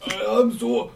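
high, loud, slow mock Japanese accent. Shown as a demonstration. Friend joins the samurai bit, mock Japanese accent.

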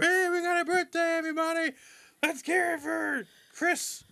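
high, hammed-up birthday shout-out. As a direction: announce it like a cheesy server. Mock restaurant staff announcing birthday.

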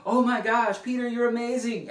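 high, gushing mock excitement from the crowd; excited crowd. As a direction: squeal it like starstruck fans. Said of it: "they're all like".

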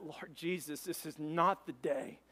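slow, halting plea to God; retold desperate prayer, drawn out; urgent prayer. Driver prays to Jesus mid-crash, slow pleading. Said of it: "I pray in a moment".

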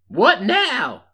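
high, loud townsman's voice; high-pitched plaintive character voice; worried mayor. Acted. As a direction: play an anxious old-West mayor, pitched right up. Voices Arkansas Pete, the mayor.

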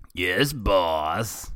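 dopey, loud goon's reply; hammed-up henchman voice. A narrator's reading. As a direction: answer the boss as a lackey. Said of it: "Bebop said".

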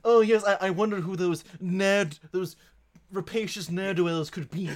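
the suspect feigning ignorance about the thieves, hammed-up; mock innocence. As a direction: play dumb, hammed-up.

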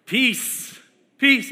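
high, rising relief; relieved exclamation. Retold or imitated. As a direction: breathe out the word with relief. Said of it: "I'm like".

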